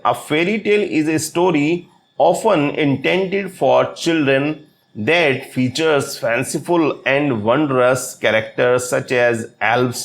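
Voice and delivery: very slow, every word spelled out for notes; slow dictation reading. Shown as a demonstration. Teacher to exam students, slow dictation pace. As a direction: read it out so students can write it down. Reads English definition aloud.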